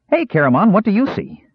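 high, gleeful kender call; gleeful cry. A narrator's reading. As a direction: tease him with glee. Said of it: "Earwig cried gleefully".

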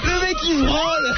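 laughing. Real, not acted. Laughing at the webcam.

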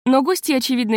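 usual speaking voice

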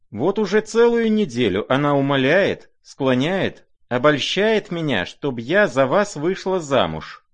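outraged at the letters; indignant. A narrator's reading. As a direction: throw the accusation out. Aglaya indignant about letters.

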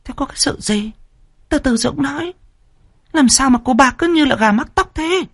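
high, impatient woman's voice; second wife voice. A narrator's reading. Second wife impatiently cutting in to demand the news. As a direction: cut in, pressing for an answer.

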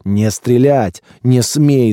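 urgent shouted prohibition; yelling. A narrator's reading. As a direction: bellow the command to stop. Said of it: "заорал Лысый".

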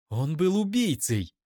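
yells it at him; shout. Acted. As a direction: cry of accusation. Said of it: "Её голос взлетел до крика".

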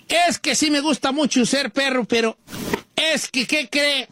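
a hint of panic in a pet's complaint; scared dog.

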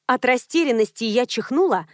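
ordinary delivery

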